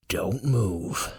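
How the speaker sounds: quiet warning not to wake the snake; concerned whisper. Acted. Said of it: "he says in a concerned whisper".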